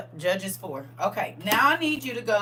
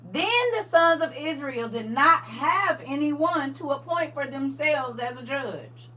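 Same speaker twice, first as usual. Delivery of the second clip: slow, measured reading aloud; scripture reading; 4 semitones higher, slower than usual. Acted. Reads the verse again.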